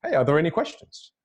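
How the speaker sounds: open, welcoming call for questions; inviting question. Acted. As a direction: invite the room to ask, lifting at the end. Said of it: "When you're inviting for questions".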